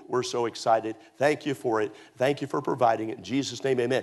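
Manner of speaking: low prayer voice, mildly put on; saying grace. Parent thanking God before eating out, prayerful. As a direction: drop low and pray your thanks. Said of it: "you pray or you say grace".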